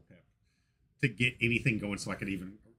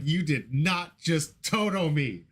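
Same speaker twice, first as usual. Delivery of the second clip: slow disbelief; 3 semitones higher, much slower than usual. Retold or imitated. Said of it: "screaming internally".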